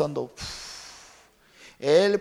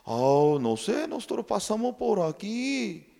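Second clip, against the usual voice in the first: rescuer speaking; 8 semitones higher than usual. Acted. Rescuers explain smoke.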